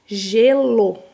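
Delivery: Gelo with the G held like J; clear demo word. Shown as a demonstration. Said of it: "que tem som de J". (Gelo falado com clareza, G como J)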